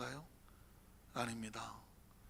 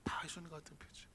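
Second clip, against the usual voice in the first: 예수님 whispered, voice almost gone; 14 dB quieter than usual. Shown as a demonstration. Preacher whispering the repeated phrase. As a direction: hush on 다 예수님 같은 표정.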